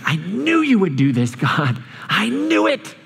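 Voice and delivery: mock exasperated, climbing high on I knew it; petulant prophet griping at God; whiny complaint. Jonah complaining to God about mercy, whiny. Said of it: "this is what he says".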